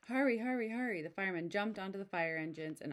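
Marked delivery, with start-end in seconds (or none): 0.1-1.0 urgent hurry. Acted. Firemen rushing to fire.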